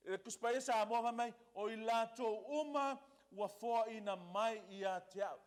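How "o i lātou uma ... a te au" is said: uma held and emphasised; stress on uma. Real, not acted. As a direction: lean on "uma" as you read. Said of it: "stress on the word uma".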